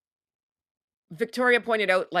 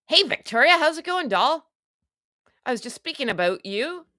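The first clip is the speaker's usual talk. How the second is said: high, chirpy put-on hello; mock sweet greeting; 7 semitones higher than usual. Mock-greeting Victoria in a high sing-song voice. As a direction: gush at her like a fake friend.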